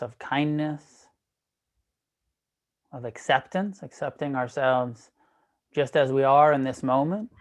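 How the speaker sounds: measured meditation guide, long pauses between phrases; guided meditation. Real, not acted. Teacher guiding an online class into breath awareness, guided meditation.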